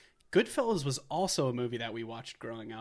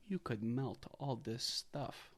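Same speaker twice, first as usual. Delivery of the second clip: quoted line; 7 dB quieter, much slower than usual. Retold or imitated. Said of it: "he has to tell her".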